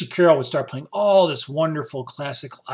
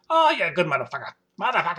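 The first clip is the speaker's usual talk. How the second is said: broken-English thanks; 3 semitones higher, faster than usual. Retold or imitated. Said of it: "They didn't speak much English".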